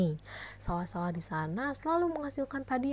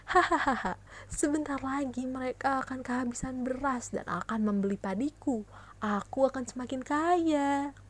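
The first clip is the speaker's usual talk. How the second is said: gloating laugh; 3 semitones higher, 3 dB quieter than usual. Acted. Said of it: "ucap Nyai Bagendit tertawa senang".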